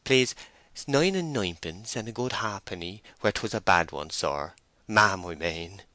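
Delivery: lightly voiced country labourer, self-effacing; a hint of a bashful rustic; timid rustic farmhand. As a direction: play a humble farm worker answering the mistress. Voices farmhand Joseph Poorgrass.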